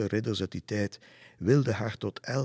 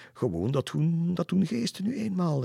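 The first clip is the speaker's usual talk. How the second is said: high, loud, amused delivery; chuckling; 10 semitones higher, 5 dB louder than usual. A narrator's reading. Leander explains the ghosts to Lisse, chuckling. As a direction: say it tickled by your own tale. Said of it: "hij grinnikte en zei".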